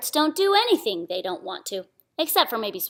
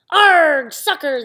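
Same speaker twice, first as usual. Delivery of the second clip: loud higher chorus; crew yell; 6 semitones higher, 9 dB louder, much slower than usual. Acted. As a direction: yell it back together. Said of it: "the crew yelled".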